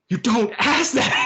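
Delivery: slow, high mock-scolding; scandalised crew. Crew hushing a rude question, slow and scandalised. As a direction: drag it out, scandalised.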